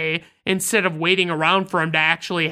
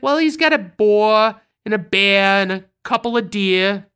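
put-on New York accent; 3 dB louder than usual. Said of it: "I can't really do the accent justice".

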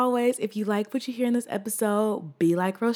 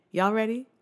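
hype call; 6 semitones higher, much slower than usual. Real, not acted. Hyping up before the song.

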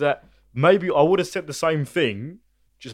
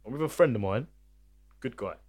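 calm and reasonable. Retold or imitated. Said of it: "what I said was".

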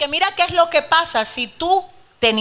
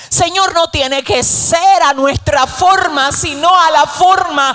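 fervent prayer; 3 semitones higher, 4 dB louder than usual. Real, not acted. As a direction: declare it to God with conviction. Continues fervent congregational prayer.

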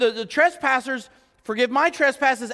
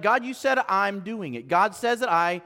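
slow and rising to a firm declaration; simple obedient prayer; 3 semitones lower than usual. Retold or imitated. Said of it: "it's like".

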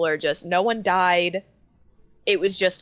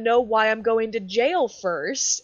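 put-on indignant drunk; 5 semitones higher, 4 dB louder than usual. Drunk guy's indignant reply.

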